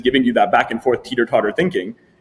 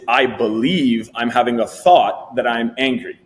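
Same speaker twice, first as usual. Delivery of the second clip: slow level three demo; slower than usual. Shown as a demonstration. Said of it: "And level three is".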